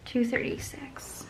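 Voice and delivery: slow whisper of a total. Real, not acted. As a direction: whisper the number to yourself. Whispered sum while calculating.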